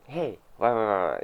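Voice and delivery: cheerful sing-song voice; bright happy nagging tone; smiley voice. Retold or imitated. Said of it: "smiley voice".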